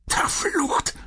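sharp whispered curse. Acted. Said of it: "stieß er flüsternd aus".

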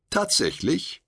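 rising, doubtful "Tatsächlich?"; questioning. A narrator's reading. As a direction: ask it in disbelief.

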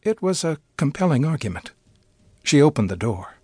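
measured storytelling read with lively character quotes; story narration. Acted. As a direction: read it like a short story on radio. Reads Ephron parody story aloud.

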